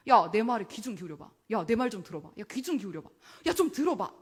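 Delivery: loud calling out to the crowd. Acted. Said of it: "소리를 높여서 이야기하는 거죠".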